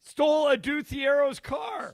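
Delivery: loud, slow, high outrage; outraged. Real, not acted. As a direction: belt it out in disbelief. Outraged punchline, shouted.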